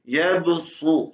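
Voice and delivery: यब सुतु very slow with a thick su; tongue back, thick su in यब सुतु; heavy su. Shown as a demonstration. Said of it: "मोटा निकालें". (मोटा सु निकालें)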